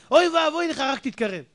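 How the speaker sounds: mock warning. Preacher warns about lion cubs.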